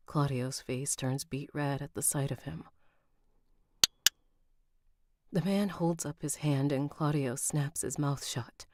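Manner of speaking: even, measured audiobook read; story narration. A narrator's reading. Narrator reading a novel to listeners, composed story narration. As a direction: narrate it evenly, with composed pacing.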